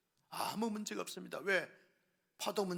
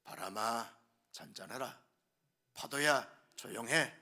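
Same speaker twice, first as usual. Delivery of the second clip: commanding; 7 semitones lower than usual. A narrator's reading. Jesus commands the storm.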